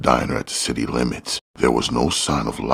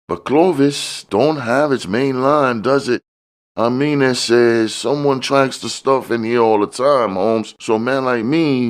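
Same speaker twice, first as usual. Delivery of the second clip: high, slightly louder put-on voice of a sly dealer; a much higher voice for the smiling fat man; George's voice; 12 semitones higher, 3 dB louder than usual. A narrator's reading. The dealer sizing up Curtis, high sly hustler voice.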